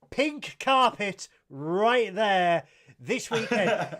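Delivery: loud, slow, laughing hype; milk the glamour of it; hyped up. Real, not acted. Host hyping his co-host's premiere, slow and laughing.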